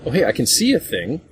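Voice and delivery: usual speaking voice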